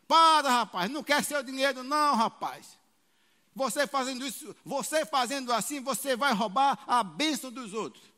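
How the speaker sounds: loud scolding pastor; stern rebuke. Retold or imitated. Pastor scolding the showoff before the church, loud stern rebuke. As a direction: rebuke him in front of all. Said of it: "Falou assim de púlpito".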